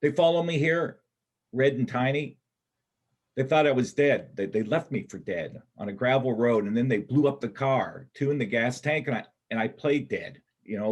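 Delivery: desperate. Acted. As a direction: pour it out in a desperate rush. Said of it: "Kip, suddenly desperate".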